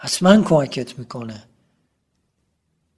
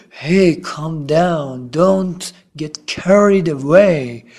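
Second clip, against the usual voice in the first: calming friend; much slower than usual. Acted. Friend tells an overexcited fan to settle, calming. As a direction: slowly settle someone down.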